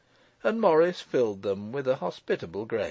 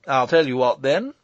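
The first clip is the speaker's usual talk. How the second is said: 2 semitones higher, 8 dB louder than usual. Acted.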